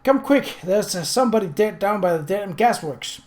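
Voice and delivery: put-on high, loud, breathless boy; out of breath. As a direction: gasp it out after running. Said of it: "completely out of breath".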